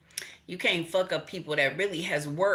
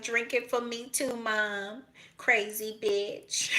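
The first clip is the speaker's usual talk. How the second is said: son's voice; 5 semitones higher, slower than usual. Retold or imitated. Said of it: "He like".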